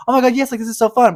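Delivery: high, loud gushing delight; gushing excitement. Retold or imitated. To her opening the gifts, squealing delight. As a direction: squeal it like a delighted gift opener. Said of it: "I opened the gifts and I was like".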